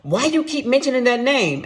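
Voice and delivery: a hammed-up bully demand; tough-guy husband. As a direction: play him acting all Billy Bad. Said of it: "like, all Billy Bad".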